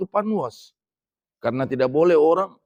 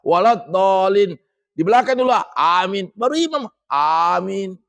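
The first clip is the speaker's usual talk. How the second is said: louder demo; 5 semitones higher, 4 dB louder than usual. Shown as a demonstration. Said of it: "Abu Hanifah".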